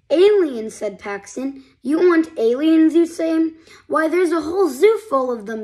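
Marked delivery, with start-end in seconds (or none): 0.1-0.7 surprised. Acted. Paxton surprised exclaim. 1.8-5.6 eager. Acted. Paxton eager answer.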